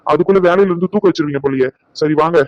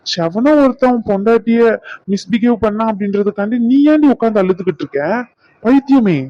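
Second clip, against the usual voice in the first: exasperated scolding; 5 semitones higher than usual. Acted. Brother scolds crying sister over a misbehaving husband, exasperated and rising. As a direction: chide her out of her tears, half angry, half loving.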